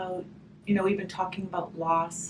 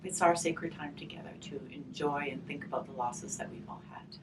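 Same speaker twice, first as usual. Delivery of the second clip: whispered, hushed and intimate; soft whisper; 2 semitones lower, 5 dB quieter than usual. Acted. Teacher opening a grief circle for children, whispered. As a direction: breathe the words, barely voiced.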